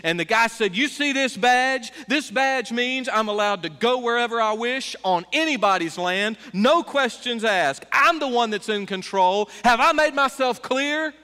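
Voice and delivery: a touch of an officer puffing up, slowed on key words; mock blustering officer. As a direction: lightly play the arrogant agent. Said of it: "verbally explodes".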